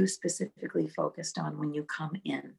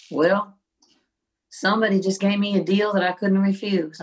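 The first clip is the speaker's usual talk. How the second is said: louder, imitated Southern friend on a call; deep Southern accent; 3 semitones higher, 5 dB louder than usual. Friend calls eighteen years later about a deal, deep Southern accent. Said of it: "with his deep Southern accent".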